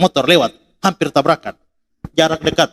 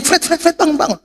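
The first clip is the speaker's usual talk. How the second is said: high, insistent repeated calling; imitated wake-up call; 12 semitones higher than usual. Dorm father waking a student at dawn, high insistent call. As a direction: imitate someone rousing a sleeper.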